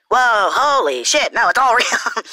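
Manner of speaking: slow, drawn-out mock amazement; hammed-up "whoa" on cue; staged amazement. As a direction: fake a scripted reaction, stretching it out. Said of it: "holy shit" mark right here".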